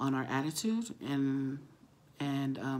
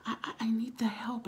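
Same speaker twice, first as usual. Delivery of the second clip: higher-pitched stammering quote; hesitant plea; 8 semitones higher than usual. Retold or imitated. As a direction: imitate someone haltingly asking for help. Retold woman asking for help.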